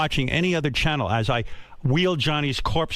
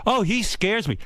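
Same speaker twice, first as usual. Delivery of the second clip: frightened women; 8 semitones higher, slower than usual. Retold or imitated. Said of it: "the women go".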